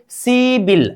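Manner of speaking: सीबिल run together, p turned into b; सीबिल as one linked word, see-bil; linked pronunciation. Shown as a demonstration. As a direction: say सीबिल joined, with a b sound. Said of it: "उच्चारण कीजिए".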